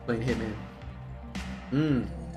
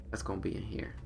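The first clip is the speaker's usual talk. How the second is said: whispering; 3 semitones lower, 9 dB quieter than usual. Real, not acted. Sneaking through a building.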